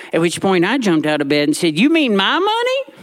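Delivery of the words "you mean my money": high, shocked question; sit bolt upright in disbelief; indignant surprise. Retold or imitated. Boy leaping out of bed at his grandmother, high shocked.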